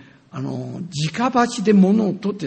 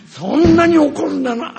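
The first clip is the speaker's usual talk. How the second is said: retold angry retort; 9 semitones higher, 8 dB louder than usual. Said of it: "自我性が出てきて".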